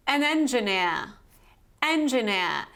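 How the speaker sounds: engineer in a British accent, no R at the end; British pronunciation. Shown as a demonstration. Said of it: "This is the British pronunciation".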